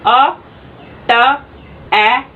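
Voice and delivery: each sound said alone with a pause after it, "अ", "ट", "ए"; sounding out strokes. Shown as a demonstration. Teacher sounding out the outline to her students, "अ", "ट", "ए" with pauses. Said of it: "इसको read करेंगे".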